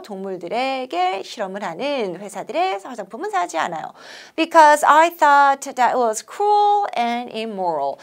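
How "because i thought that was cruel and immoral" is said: "thought" with tongue between the teeth, th not s; careful th sound. Shown as a demonstration. Teacher modeling the th in "thought" for students. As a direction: bite the th in "thought" gently. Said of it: "여기서 thought, th 발음".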